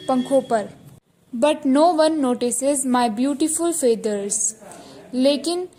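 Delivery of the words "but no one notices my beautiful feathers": slow dictation reading. Shown as a demonstration. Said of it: "teacher reads the sentence slowly".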